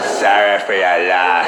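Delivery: slow, hollow "Sorry for your loss"; mock a murderer's fake sympathy; slowly faked sympathy; insincere condolence. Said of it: "that's the murderer right there".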